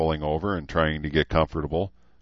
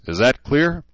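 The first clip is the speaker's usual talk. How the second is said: demanding; 8 semitones higher, 4 dB louder than usual. Acted. Gunny demanding answer from formation.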